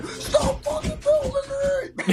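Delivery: high-pitched slow angry shriek; shrieking old lady. Retold or imitated. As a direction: scream it like a furious old woman. Old person yelling angrily.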